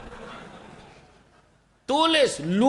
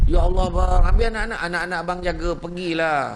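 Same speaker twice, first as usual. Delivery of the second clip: delighted wife; 4 dB louder than usual. Acted. Delighted wife thanking husband.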